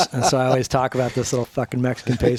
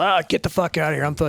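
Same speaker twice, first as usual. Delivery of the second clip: higher-pitched mock yell from an argument; retold yelling; 4 semitones higher than usual. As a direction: imitate a marital row without full volume. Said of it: "fucking yelling at each other".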